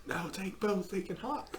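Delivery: playful whisper. Pretend. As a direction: whisper a joke. Whispered joke.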